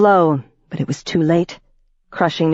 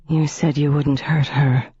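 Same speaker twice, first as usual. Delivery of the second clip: heavy voice. Acted. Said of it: "Ivy's voice was heavy".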